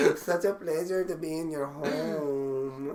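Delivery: flamboyant voice. Pretend. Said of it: "a gay Hispanic voice".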